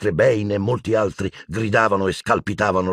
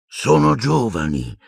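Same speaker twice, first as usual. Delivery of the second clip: slow, sad voice; 5 semitones higher, slower than usual. Acted. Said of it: "disse una lenta voce triste".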